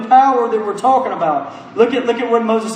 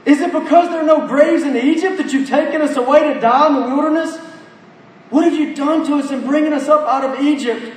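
higher-pitched, lightly acted protest; a touch of complaint, pitched up; mild complaint; 4 semitones higher than usual. Frightened Israelites complaining to Moses in the wilderness, mild complaint. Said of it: "they began to whine and complain before God".

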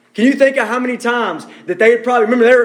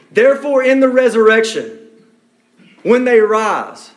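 pompous. Retold or imitated. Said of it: "Can you hear the pomp in that?".

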